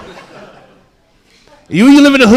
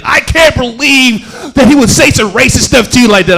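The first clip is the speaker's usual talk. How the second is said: higher-pitched mock outrage; pissed off; 6 semitones higher, 4 dB louder than usual. Barbara outraged at racist stuff said to him, higher mock indignation. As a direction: imitate an indignant friend. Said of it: "she was so pissed off".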